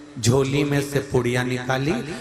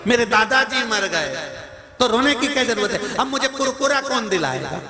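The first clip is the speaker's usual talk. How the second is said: high-pitched whining grandson, lightly imitated; mock crying child; 8 semitones higher than usual. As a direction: pretend a small boy's tearful complaint. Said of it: "वो रो रहा था".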